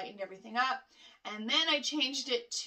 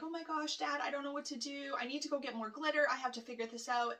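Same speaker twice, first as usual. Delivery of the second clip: mild mock panic, higher and softer; retold panic; 3 semitones higher, 3 dB quieter, faster than usual. Retelling a call to her dad, mock panicking. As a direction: rattle it off as imitated fretting, hushed. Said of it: "like, panicking".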